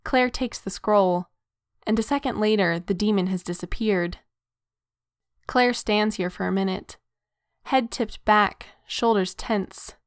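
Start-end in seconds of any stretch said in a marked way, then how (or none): none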